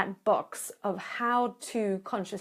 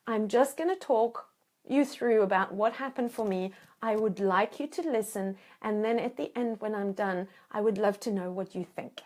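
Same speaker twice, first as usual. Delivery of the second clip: calm instructions. Shown as a demonstration. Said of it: "So I want you to say".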